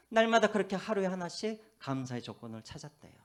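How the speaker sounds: ordinary delivery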